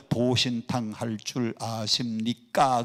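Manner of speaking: slow, drawn-out formal Seoul question; measured Seoul politeness; Seoul speech. Shown as a demonstration. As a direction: spell it out in full, careful Seoul standard. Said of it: "서울 사람들은".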